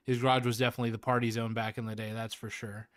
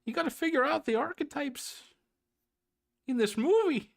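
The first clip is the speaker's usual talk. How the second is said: Jordan Peterson impression. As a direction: lecture as Jordan Peterson, pitched up. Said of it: "I am not doing a good Jordan Peterson".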